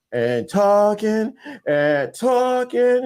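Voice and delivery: drawn-out slow repeats; mock endless droning; dragged out. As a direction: stretch each word to show it never ends. Dad talks on and on.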